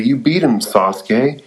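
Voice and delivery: bright rising cheer for a friend; a touch of excited relief. Retold or imitated. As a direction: call it out like he won. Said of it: "Naruto responds excitedly".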